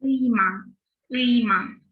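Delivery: ıyman said distinctly; contrast pronunciation. Shown as a demonstration. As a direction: model the other form ıyman. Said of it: "bu kelime şöyle bir şey olsaydı".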